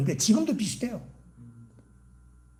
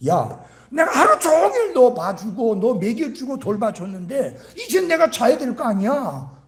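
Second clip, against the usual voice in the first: acted fed-up parent, higher and louder; exasperated scolding; 5 semitones higher, 4 dB louder than usual. Preacher voicing a mother to her night-crying baby, exasperated scolding.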